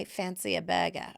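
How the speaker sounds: badly faked Australian accent; half-hearted Aussie accent imitation. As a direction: attempt an Australian accent, dropping the r. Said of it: "I can't do the Australian accent".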